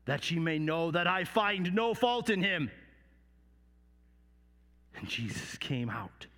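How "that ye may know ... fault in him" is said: Pilate. Acted. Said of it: "and said".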